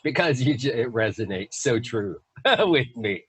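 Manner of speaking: tearing up with laughter as you speak; laughing. Real, not acted. Guest so tickled by how it resonates, laughing. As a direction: talk through real laughter. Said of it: "I'm laughing so much".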